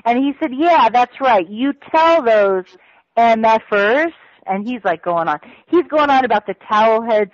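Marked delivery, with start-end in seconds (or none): 0.6-4.1 slow, pressing each word; mild imitation of an angry handler; retold emphatic order. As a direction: drive the order home like the angry boss. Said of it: "screaming obscenities".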